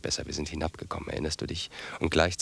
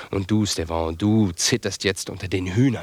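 scornful outburst; 4 semitones higher, 8 dB louder, slower than usual. Acted. Mocking his trembling brother.

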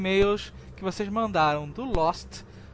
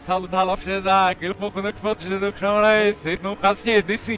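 backwards speech. Pretend. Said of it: "eu agora vou falar de trás pra frente".

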